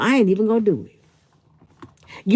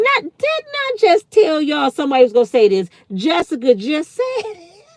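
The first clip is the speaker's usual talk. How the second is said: incredulous laugh; 6 semitones higher than usual. Real, not acted. Commenter proves her point.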